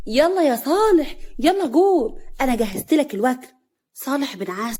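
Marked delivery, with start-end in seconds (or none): 0.1-3.5 high, lilting call to eat; loving. A narrator's reading. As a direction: coax a husband along affectionately. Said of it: "نوال بحب".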